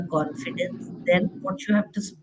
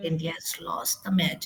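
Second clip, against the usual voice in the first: voice falling all the way down, lowered and quiet; 2 semitones lower, 5 dB quieter than usual. Showing how the voice falls for news india lost: voice going down. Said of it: "Now my voice has gone down".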